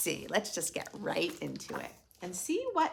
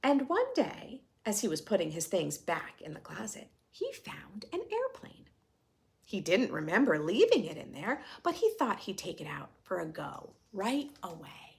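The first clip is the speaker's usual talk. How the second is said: storytelling voice. A narrator's reading. Reading picture book to class.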